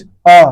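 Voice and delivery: "अ" sounded loud, striking mid-mouth near the palate; middle vowel demo. Shown as a demonstration. Teacher showing students the middle vowel, loud demo of "अ". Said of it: "अ का उच्चारण करोगे तो यहाँ टक्कर मारता है".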